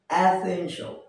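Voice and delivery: "essential" said as "e-SEN-sho", short ending; correct pronunciation. Shown as a demonstration. Teacher giving learners the proper form, "essential" as e-SEN-shl. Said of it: "এর উচ্চারণ হবে".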